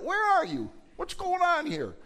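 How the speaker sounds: high, loud anguished plea; psalmist crying out. Retold or imitated. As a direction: call out like the psalmist. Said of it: "That's what the psalmist did".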